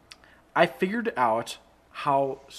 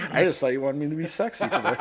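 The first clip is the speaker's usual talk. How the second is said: laughing quote; faster than usual. Retold or imitated. Acting out a coworker's excuse.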